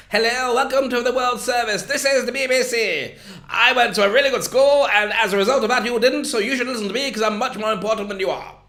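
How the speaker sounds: high, loud, posh BBC announcer; hammed-up plum-in-the-mouth English accent; plummy posh English. Presenter parodies early BBC World Service snobbery, plummy posh English. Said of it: "sound like they've got a plum in their mouth".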